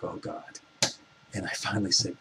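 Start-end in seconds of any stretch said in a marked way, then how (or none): 0.0-0.6 a soft, breathless whispered dread; whispered oh God. Retold or imitated. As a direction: breathe it out like you're dreading the moment. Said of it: "And I'm like".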